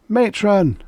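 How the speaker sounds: high, loud desperate scream; frantic cry for the matron. A narrator's reading. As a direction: scream for help in panic. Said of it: "she screamed".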